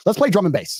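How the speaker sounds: high mock girl voice; girls at retail park. Girl asking the driver for music, lightly imitated high voice. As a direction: pitch it up like the car-park girls. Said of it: "the girls are there smoking".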